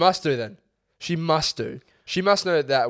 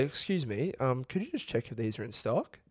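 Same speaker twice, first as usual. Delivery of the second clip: polite customer; 10 dB quieter than usual. Retold or imitated. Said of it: "And I say".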